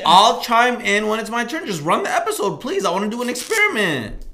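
words pushed through taped lips; muffled behind gaff tape; mouth taped shut. Real, not acted. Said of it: "can't do it with tape on your mouth".

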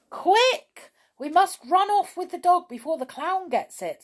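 high, loud, urgent exclamation; alarmed call to hurry. A narrator's reading. Urging friends to flee.

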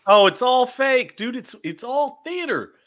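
high, loud scoffing insistence; emphatic scoff. Real, not acted. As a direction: shout it down as fake. Scoffing that it is all fake.

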